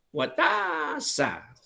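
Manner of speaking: high, very slow drawn-out exclamation; astonished. Shown as a demonstration. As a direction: stretch out the vowel in amazement. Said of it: "很惊讶".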